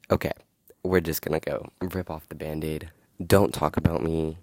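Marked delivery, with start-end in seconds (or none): 3.2-4.4 loud, indignant call-out; heated rant. Real, not acted. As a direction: tell them off, voice climbing. Venting at people who gossip.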